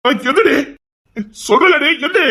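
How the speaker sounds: husband shouting at his wife to get up; shouting to wake her. Acted. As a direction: call her up sharply.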